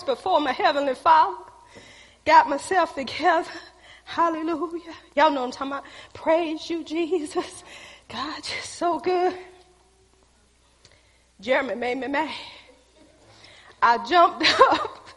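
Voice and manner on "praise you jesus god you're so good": slow, lilting praise to God; drawn-out, reverent murmured praise; acted worship prayer. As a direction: imitate being lost in private worship. Acting out prayer in her office.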